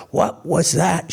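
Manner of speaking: sudden high startled shriek; frightened scream. A narrator's reading. Daughter-in-law shrieks as her nose is tweaked, startled scream. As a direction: shriek it, jumping back in fright. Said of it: "she screamed".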